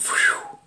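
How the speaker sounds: quick breathy whistled whew; whoosh. Shown as a demonstration. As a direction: time whooshing past in a breath. Imitates years whooshing past.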